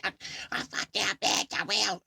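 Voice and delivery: put-on high, loud drunk threat; background rant. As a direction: bark it from across the room. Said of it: "He's in the background".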